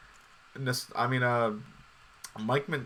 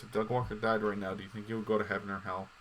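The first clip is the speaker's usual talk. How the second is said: serious; 4 dB quieter, faster than usual. Real, not acted. Asking Max to get serious about heaven or hell, earnest. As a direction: drop the banter and ask sincerely. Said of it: "let's get serious".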